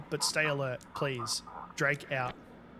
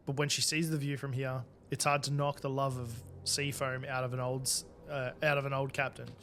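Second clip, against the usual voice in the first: diary narration. Acted. Reading keeper's diary entry.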